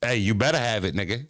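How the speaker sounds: demanding warning from the wife; mock threat. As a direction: lean on better, half joking. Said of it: "That's what she meant".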